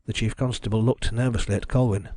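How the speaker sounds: ordinary delivery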